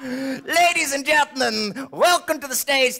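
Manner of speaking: high, grand stage introduction; show announcer. Acted. Performer introduces self as the star, grand announcing.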